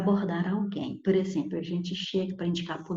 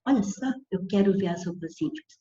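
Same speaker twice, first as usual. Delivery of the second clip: blunt request; faster than usual. Retold or imitated. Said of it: "Pra você não chegar em ponto assim".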